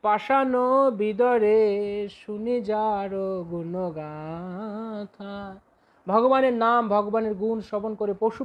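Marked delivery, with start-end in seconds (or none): 0.0-5.5 reciting verse. Retold or imitated. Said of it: "যেমন লোচন দাস ঠাকুর বলছেন".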